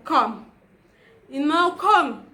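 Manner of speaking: "come" with a rounded open o, like "kom"; mispronounced "come". Shown as a demonstration. Teacher gives example of a flawed British accent, "come" as "kom". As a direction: say "come" with an aw-like vowel. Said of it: "you're saying come".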